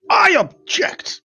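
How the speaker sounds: slow, high shouted objection; objecting shout. Acted. Interrupting the wedding, a drawn-out objecting shout. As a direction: burst in and stop the wedding.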